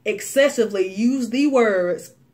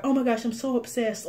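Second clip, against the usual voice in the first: gushing YouTuber; 3 semitones higher, faster than usual. Retold or imitated.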